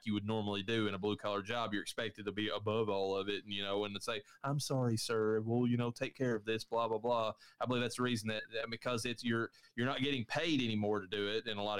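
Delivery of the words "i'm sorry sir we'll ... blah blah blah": mildly put-on customer-service apology; lightly mock a dutiful, fake-polite reply; fake politeness. Retail worker placating a complaining customer, mildly fake-polite. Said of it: "be totally fake".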